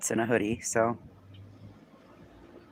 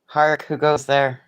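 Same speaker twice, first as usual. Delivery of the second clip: slow, grand theatrical challenge, louder; hammy stage actor; 4 semitones higher, 9 dB louder, slower than usual. Pretend. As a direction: boom it out like a Shakespearean guard. Mock old-style challenge.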